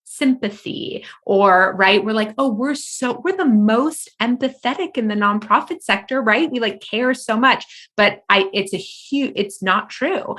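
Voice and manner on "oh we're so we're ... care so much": higher, sing-song mockery of smug nonprofit folks; mock self-praise. Mocking her own sector's smug claim of caring. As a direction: send up the sector's pious tone.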